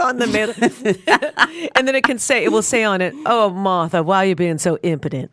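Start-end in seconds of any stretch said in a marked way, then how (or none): 3.3-5.3 hint of a scolding Southern dad; mildly put-on Southern dad scolding; lightly imitating friend's dad. Teasing Martha with her dad's old saying, lightly imitated. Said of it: "like your dad used to say".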